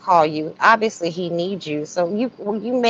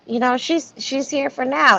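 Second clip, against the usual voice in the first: imitating Shirley; 7 semitones higher, 3 dB quieter than usual. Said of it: "she's like".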